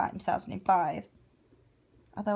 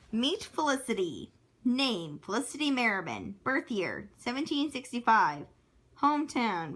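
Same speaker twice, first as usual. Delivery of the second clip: measured list-reading voice; reading out stats; 3 semitones higher than usual. Acted. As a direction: read each heading, then its entry. Reads character stats.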